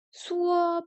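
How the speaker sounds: "Suo" pitched high in first tone. Shown as a demonstration. Learner rehearsing Chinese tones aloud, high first-tone "Suo". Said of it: "premier ton".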